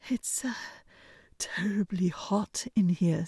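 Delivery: hesitant half-whispered suitor; shy tongue-tied murmur; nervous mumble. A narrator's reading. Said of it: "said the suitor".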